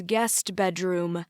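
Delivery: "guest" leaned on pointedly; stress on guest. A narrator's reading. Father doubting the guest bedroom story, stress on "guest". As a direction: put the emphasis on "guest". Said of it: "Dad emphasizes the word guest".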